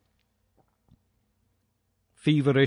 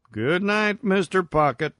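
high, singled-out call across a distance; 6 semitones higher than usual. A narrator's reading. Miner calls across to his side hill at bedtime, calling out. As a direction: call a goodnight in a raised character voice. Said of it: "he called".

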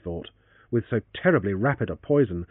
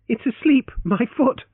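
laughing; 12 semitones higher, 5 dB louder than usual. Acted. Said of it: "with laughter unhidden".

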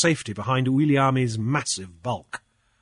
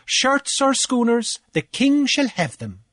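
pompous official, pitched higher, boasting; blustering Cornelius; 11 semitones higher than usual. Acted. Cornelius gloating to Grief over the fines, higher and pompous. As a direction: puff up like a petty island official lording it.

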